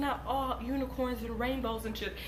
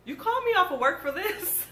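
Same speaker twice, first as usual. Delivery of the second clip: retold annoyed mom; 8 semitones higher, 3 dB louder than usual. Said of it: "And she was like".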